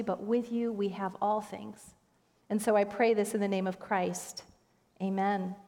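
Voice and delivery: measured, gently falling prayer voice. Real, not acted. Pastor praying with the congregation before the sermon, prayerful. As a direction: pray aloud for the congregation, unhurried.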